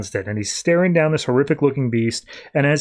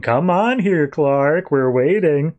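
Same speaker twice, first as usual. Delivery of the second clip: lightly voiced zombie parent calling; a hint of zombie in a beckoning call; mock zombie summons, lightly done; zombified voice; slower than usual. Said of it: "a very zombified voice coming from downstairs".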